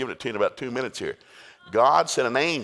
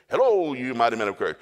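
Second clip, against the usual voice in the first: angel calling out; 5 dB louder than usual. Retold or imitated. Angel in a sheet hails hiding Gideon, calling out. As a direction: call down grandly to someone hiding. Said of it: "this guy in the big sheet says".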